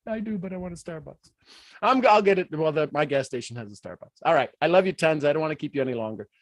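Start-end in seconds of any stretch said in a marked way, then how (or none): none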